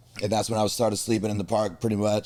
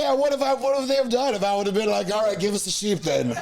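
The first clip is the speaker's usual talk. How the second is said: mock bravado; 10 semitones higher than usual. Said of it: "I was like".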